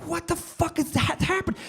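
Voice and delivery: high, strained squeak of bewilderment; high-pitched disbelief. Acted. Comic recounting his baffled reaction to hitting something, high-pitched disbelief. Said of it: "And I'm just like".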